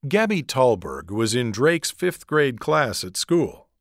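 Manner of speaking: usual speaking voice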